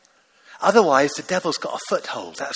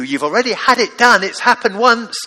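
forceful insistence; 4 semitones higher, 8 dB louder than usual. Acted. Preacher voicing Paul's insistence.

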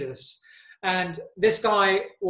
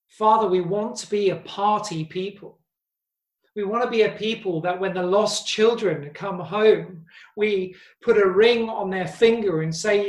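earnest prayer. Acted. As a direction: pray it aloud to the congregation. Leads a prayer.

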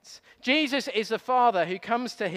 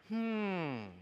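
1 interested hmm; 10 dB quieter than usual. Shown as a demonstration. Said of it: "you go".

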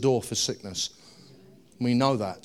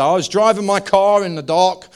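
retold woman's story; 3 semitones higher, 5 dB louder than usual. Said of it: "she had quite a strong Texan accent".

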